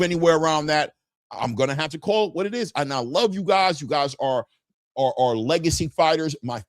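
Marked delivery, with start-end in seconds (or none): none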